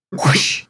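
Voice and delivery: breathy whoosh sound effect; arrow whoosh. Shown as a demonstration. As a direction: blow out a quick whoosh. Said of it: "earn the whoosh".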